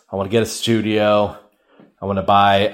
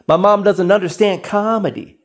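higher, whiny protest; defensive whine; 8 semitones higher than usual. Retold or imitated. Son protests to girlfriend, whiny and high. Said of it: "I'm like".

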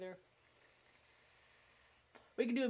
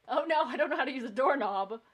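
louder, higher mock whine of helplessness; mock helpless killer; 6 semitones higher, 10 dB louder than usual. Mocking the slasher stuck at a door, loud mock whine. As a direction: play the hulking killer stumped by a door.

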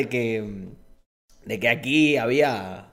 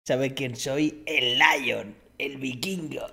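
viking character impression; 4 dB quieter, much slower than usual. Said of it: "Y era del tío este".

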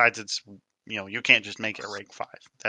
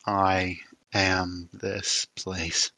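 slow spirit voice; 3 semitones lower, much slower than usual. Acted. Spirit answers its maker.

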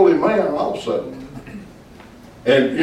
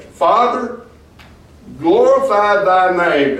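high, slow, solemn plea on glorify; solemn prayer; 3 semitones higher, slower than usual. Acted. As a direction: lift Father high, then stretch out glorify thy name. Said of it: "Look at what he says next".

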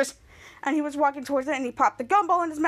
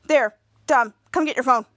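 lower, louder grumble; mildly mad; 3 semitones lower, 4 dB louder than usual. Retold or imitated. Kid Danger handing back the girl's phone, low annoyed grumble. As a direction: grumble it, annoyed at being ignored. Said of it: "He sounds so mad".

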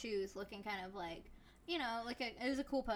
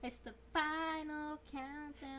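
dramatic announcement; 6 semitones higher, much slower than usual. Pretend. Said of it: "announcing the song".

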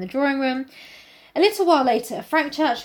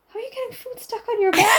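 confused shout; 11 semitones higher than usual. Retold or imitated. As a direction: shout it in disbelief. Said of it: "I was like".

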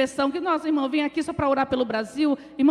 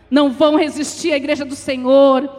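louder, emphatic declaration; forceful assurance; 8 dB louder than usual. Real, not acted. Preacher repeating the promise to the church, forceful declaration. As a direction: drive the promise home.

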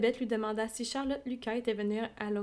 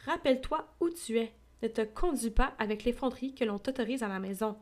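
scolding. Acted. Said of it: "s'écria sa mère".

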